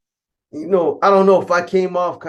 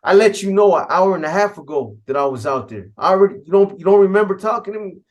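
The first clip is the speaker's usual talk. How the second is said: louder, higher, building into an angry shout; retold angry outburst; 5 semitones higher, 4 dB louder, faster than usual. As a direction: snap back at him, fast and heated by the end. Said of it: "that just pissed me off".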